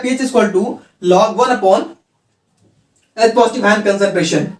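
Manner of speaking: very slow, each word spaced out; slow dictation. Shown as a demonstration. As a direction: dictate it slowly for students to write. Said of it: "teacher dictating formula again".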